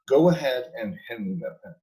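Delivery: firm command, falling at the end; tell, don't ask. Shown as a demonstration. Demoing the confident way to command, firm. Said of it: "You're saying".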